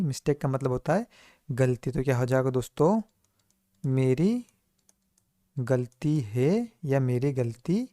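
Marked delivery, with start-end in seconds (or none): 3.9-7.9 slow recap. Shown as a demonstration. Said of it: "दोनों ही दोस्तों सही है".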